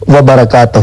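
وبرکاتہ said with the و sound spelled out; correct pronunciation. Shown as a demonstration. Cleric showing the caller the correct salaam, deliberately. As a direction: sound out وبرکاتہ with a clear و at the start. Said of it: "یہ غلط بولا ہے".

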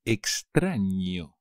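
Extraño with a clear ñ sound, ny; ñ pronounced. Shown as a demonstration. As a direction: stress the ñ in Extraño as ny. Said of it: "La ñ, the N with the haircut". (pronunciación de la ñ en Extraño)

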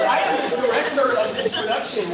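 sharp, fast, defensive director; loud sharp voice. Acted. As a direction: snap back at the actor. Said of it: "Why are you yelling at me?".

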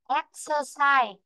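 "Exercise" with the first syllable stressed; drawn-out teacher's "Exercise", stress at the front. Shown as a demonstration. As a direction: slowly model "Exercise", leaning on "Ex". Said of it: "trong ấm sẽ rơi vị trí thứ nhất".

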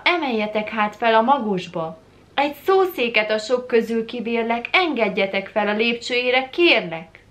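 rising, urgent appeal in verse; pleading. Acted. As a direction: implore them to let you climb up. Poem's plea for a pulpit.

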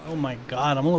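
soft, low, choked-up aside; mildly moved and subdued; a little teary-eyed. Real, not acted. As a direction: admit it quietly, close to tears. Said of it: "teary-eyed".

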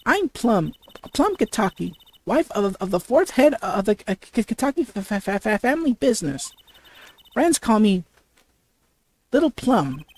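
lightly voiced matriarch introducing herself; husky-voiced woman. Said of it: "the voice I did with".

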